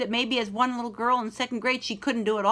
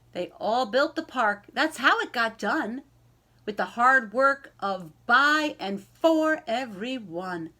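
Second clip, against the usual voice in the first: slow, lilting read-aloud voice; gentle picture-book narration with rhyming lilt; storybook reading. Acted. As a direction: read it to a class of young kids. Teacher reads picture book aloud.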